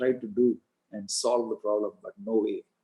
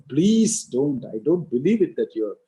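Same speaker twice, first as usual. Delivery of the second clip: emphatic plea with a loud "please"; a touch of desperate protest; retold begging; 2 semitones higher, 5 dB louder than usual. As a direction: plead in mild storytelling fashion. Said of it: "He started begging her".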